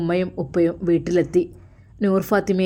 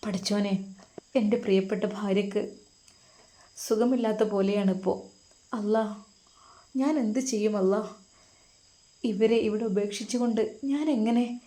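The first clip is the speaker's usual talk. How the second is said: softer, troubled voice of a husband torn about leaving; a quiet, anxious plea to God; worried husband; 4 dB quieter than usual. Acted. Husband fretting over his sick wife before Hajj, softer and worried. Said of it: "ഉസ്താദിന് ആകെ ഒരു ആവലാതി".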